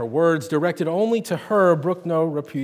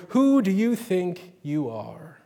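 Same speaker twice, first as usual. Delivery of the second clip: roaring; 3 semitones higher, slower than usual. Acted. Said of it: "she roared".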